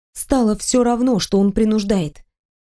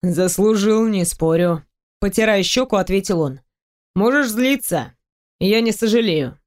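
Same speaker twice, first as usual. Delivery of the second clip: lightly voiced man. Teasing the heroine about undressing, lightly lowered male voice. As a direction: tease her, playful and sure.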